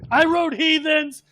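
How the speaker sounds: high, slow, hammed-up screaming fan, laughing through it; mock screaming fan. Crazed fan outside the buses screaming he wrote a song. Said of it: "screaming at the top of his lungs saying".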